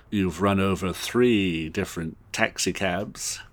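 lightly put-on English boss; a touch of bumbling Englishman; Hugh Grant. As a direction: list the offences with British politeness. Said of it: "trying to do more of a Hugh Grant".

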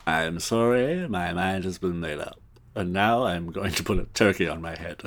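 lightly voiced British boss; Hugh Grant. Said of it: "trying to do more of a Hugh Grant".

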